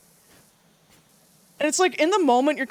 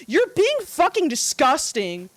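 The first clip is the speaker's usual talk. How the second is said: raised-pitch, emphatic mock scolding; retold angry yell; 5 semitones higher than usual. Telling off the creep in class, mild retold yell. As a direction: scold him in disgust, higher but not shouting. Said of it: "I just fucking yelled at him".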